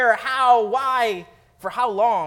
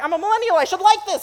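mock millennial voice; 11 semitones higher, 8 dB louder, faster than usual. Mock inner voice of obligation.

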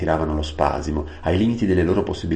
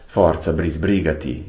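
urging on; 3 dB louder, slower than usual. Acted. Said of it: "incitava Aravis".

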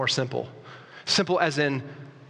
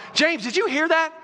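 high, loud, thrilled disciple shouting the count; high excited cry to James; excited Thomas; 13 semitones higher, 4 dB louder than usual. Retold or imitated. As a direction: burst out like a fisherman who can't believe the catch. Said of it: "Thomas is like".

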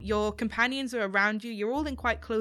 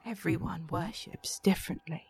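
soft whisper; 3 semitones lower, 4 dB quieter than usual. Acted. Goddess answers softly.

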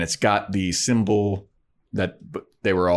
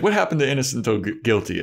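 whiny Xander; 3 semitones higher, much faster than usual. Retold or imitated. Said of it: "he's like".

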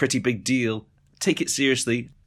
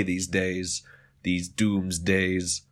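ominous doomsday; 3 semitones lower than usual. Pretend. Mock apocalyptic aside.

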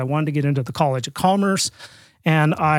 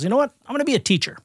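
put-on eager teen; 9 semitones higher, much faster than usual. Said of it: "He goes".

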